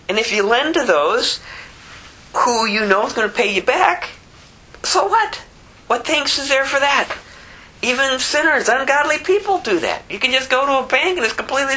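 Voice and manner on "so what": scoffing challenge. Real, not acted. Rhetorical scoffing question repeated.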